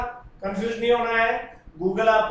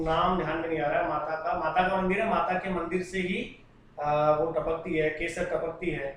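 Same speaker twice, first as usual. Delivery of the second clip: lower, softer, halting thinking aloud; musing recall; 4 semitones lower, 5 dB quieter than usual. Real, not acted. Teacher trying to recall a temple's name, quiet musing. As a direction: search memory quietly, half to yourself.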